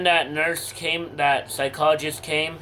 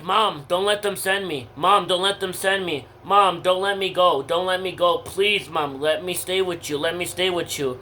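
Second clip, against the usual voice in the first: pitched-up, insistent begging; retold crying plea; 2 semitones higher than usual. Teen begging mom not to send them away, retold tearful plea. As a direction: beg urgently, re-enacting the tears. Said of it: "I was crying".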